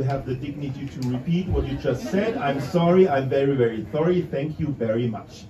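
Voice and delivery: hammed-up excessive English politeness; over-polite apology. Shown as a demonstration. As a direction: gush apologies, rushing the middle. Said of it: "which in full means".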